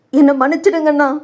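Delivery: high, imploring plea for forgiveness; pleading father. Acted. Prakasam begs elder brother at his feet, pleading high.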